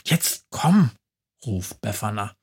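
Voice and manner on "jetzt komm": high, loud, excited witch voice; cheeky Christmas witch defending her plan; high-pitched chatty witch, fast bursts; lively witch. Acted. Witch Befana teasing.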